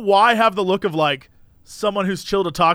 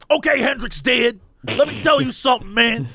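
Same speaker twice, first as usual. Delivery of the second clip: lightly put-on rambling stranger; the stranger's proper voice. Stranger launching into his Hendrix story, in a lightly put-on voice. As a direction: imitate an insistent stranger, livelier and fuller. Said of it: "I should be doing".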